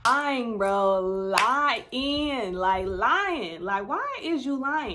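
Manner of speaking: loud, exasperated repeated accusation; loud disbelieving scoff at a liar; calling out lying. Real, not acted. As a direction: hammer the word lying at him. Reacting to his denial in clip.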